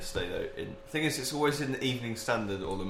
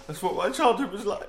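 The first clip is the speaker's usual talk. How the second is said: laughing; 11 semitones higher, 4 dB louder than usual. Real, not acted. Laughing while telling.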